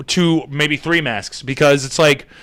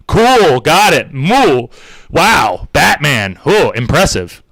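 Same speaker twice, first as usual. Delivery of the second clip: loud mock-impressed dismissal; sarcastic; 3 dB louder, much slower than usual. Scene: mocking the Batman reply guy, loudly sarcastic. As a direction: fake praise dripping with scorn.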